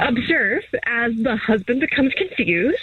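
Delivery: lightly voiced wildlife narrator, measured pace; David Attenborough. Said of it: "why are you talking like that?".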